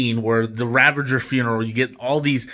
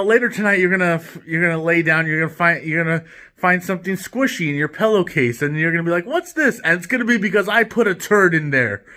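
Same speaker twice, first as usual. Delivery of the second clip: higher-pitched mock taunting; retold taunt; 4 semitones higher than usual. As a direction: tease a rival with a gross threat, lightly acted. Retells Rocket's taunt to Peter.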